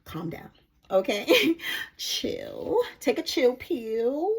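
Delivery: lightly voiced calm guide; a gentle hint of the divine soothing. Divine spirit calming the excited reader, lightly gentle. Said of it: "the divine is letting me know".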